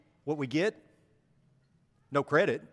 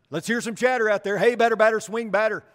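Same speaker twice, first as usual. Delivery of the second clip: higher pitched coach's call, then a louder heckle; coach calling for chatter; 4 semitones higher, 4 dB louder than usual. Retold or imitated. Coach urging his fielders to chatter, raised sing-song call. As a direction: play the coach rallying the infield. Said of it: "the coach would encourage it".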